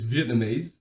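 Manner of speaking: "Vietnamese" said slowly as a model, ending on a rise; model pronunciation. Shown as a demonstration. Co-host teaching friend the word, slow model "Vietnamese". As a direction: show how "Vietnamese" is properly said, unhurried. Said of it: "teach you how to say Vietnamese properly".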